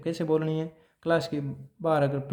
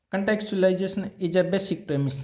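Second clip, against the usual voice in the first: slow dictation; 3 semitones higher, much slower than usual. Shown as a demonstration. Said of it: "teacher dictating a principle".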